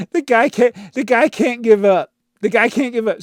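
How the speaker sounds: high, loud laughing disbelief; exasperated laugh. Real, not acted. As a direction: laugh at his persistence. Exasperated at commenter.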